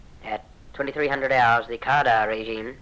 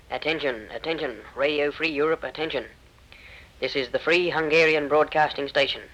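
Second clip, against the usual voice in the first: higher, pleading announcer reading; urgent radio appeal; 4 semitones higher than usual. Retold or imitated. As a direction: call out like a besieged station. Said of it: "came this broadcast".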